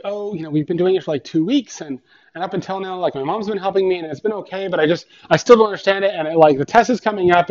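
a child anxiously explaining, lightly imitated; stressed third-grader. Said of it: "she's just stressing out".

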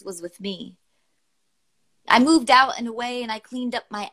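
measured recital of a serious poem; poem reading. Acted. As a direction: read each line as a heartfelt spoken-word piece. Reads a poem aloud.

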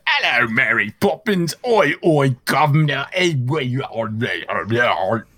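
bad mock-Cockney chimney sweep accent; garbled, hammed-up Cockney patter; Bert. Host attempting the Bert voice when dared, mangled Cockney accent. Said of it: "who can't forget that Bert voice".

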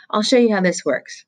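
lightly voiced nervous boy; boy's voice. A narrator's reading. Roy explaining camera.

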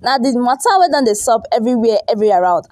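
a weak attempt at Nigerian Pidgin. Shown as a demonstration. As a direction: try out Nigerian Pidgin, unsure. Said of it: "let me try and speak pidgin".

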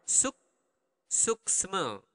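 suksma said slowly, broken into syllables; slow demo. Shown as a demonstration. Teacher breaking down Balinese thank-you for learners, slow.

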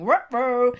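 a light Scooby-style dog bark of words; imitating the cartoon dog's worried line. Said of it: "a giant C G I dog going".

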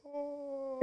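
put-on high, soft old-lady "oh"; little old Puerto Rican lady. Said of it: "had her accent".

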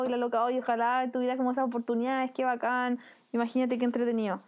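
easy, good-natured wishing; lightly acted friendly admiration; admiring envy. Shown as a demonstration. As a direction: wish it for yourself without any bitterness. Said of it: "el tono de voz ya le cambia el sentimiento".

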